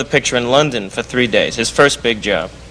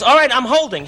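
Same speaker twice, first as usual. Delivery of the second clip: imitating panicked friend; 11 semitones higher than usual. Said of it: "he goes".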